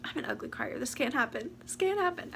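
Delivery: real, near-tearful self-scolding; on the verge of crying; fighting back tears. Real, not acted. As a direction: hold the crying in, pitch rising on the repeat. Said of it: "trying not to cry".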